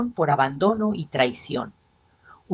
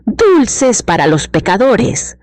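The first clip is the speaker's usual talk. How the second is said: drawn-out, raised mock street cry; shouted cry; 5 semitones higher, 11 dB louder, slower than usual. A narrator's reading. Disguised woman crying out to the parade crowd, shouting. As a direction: call it out high and slow, loudly.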